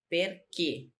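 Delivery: Perché with a closed final é; closed final vowel. Shown as a demonstration. Teacher showing students the accent, closed vowel in Perché. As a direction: end Perché on a close e, not an open one. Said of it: "o som é fechado".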